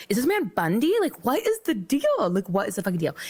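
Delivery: high-pitched, alarmed disbelief, retold; furious and terrified. Woman wondering about the man blocking her, furious terrified retelling. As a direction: let the questions leap up high in mock alarm. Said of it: "furious at this point and terrified".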